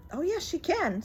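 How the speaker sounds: high, sing-song reassurance; cheerful insistence. Acted. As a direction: insist happily. Amelia contradicts the mother.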